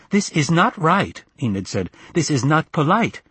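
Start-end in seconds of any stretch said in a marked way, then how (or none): 0.1-1.2 high, slow, indignant reproach; offended mother on the phone; aggrieved mother. Acted. 2.1-3.2 offended mother on the phone; aggrieved mother. Acted.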